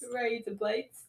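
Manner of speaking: "Razor blades" with Australian "blites"; playful Australian accent, rising at the end; mock Australian accent. Showing her friend how she does it, mock Australian accent.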